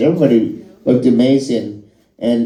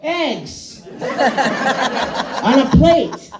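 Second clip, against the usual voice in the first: very high, squealing, laughing delight; overjoyed Fallon; 13 semitones higher, much slower than usual. Retold or imitated. Comic mocking Fallon at breakfast, squealing with joy. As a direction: gush over everything like a thrilled child. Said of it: "he must wake up ... and go".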